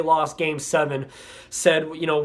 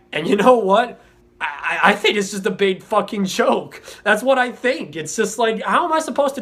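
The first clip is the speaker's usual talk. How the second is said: angry outburst; 4 semitones higher than usual. Real, not acted. Fan's outburst at his team.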